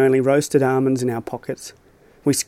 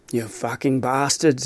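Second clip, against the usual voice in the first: slow, lightly put-on Australian-Scottish accent; slower than usual. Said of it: "took on a warped accent, somewhere between Australian and Scottish".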